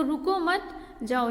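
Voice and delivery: रुको मत as one phrase, a break before जाओ; pause after मत. Shown as a demonstration. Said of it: "अल्पविराम लगा हुआ है".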